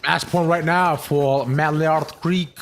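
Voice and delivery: slow, hammed-up French accent; mock French accent. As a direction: announce it in a put-on French accent. Calls match point in mock French.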